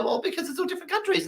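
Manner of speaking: mock learner answer. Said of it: "And they go".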